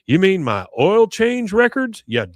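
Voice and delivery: high, slow incredulous correction; imitating a baffled dad, drawn out and high; mock exasperation. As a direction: spell it out as if to a fool. Acts out Hank's exasperated correction.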